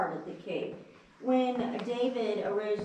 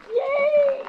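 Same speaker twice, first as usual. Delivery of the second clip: loud cheer echoing off rock; cave echo; 13 dB louder than usual. Real, not acted. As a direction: cheer out so it rings around. Guide cheers loudly in the cave.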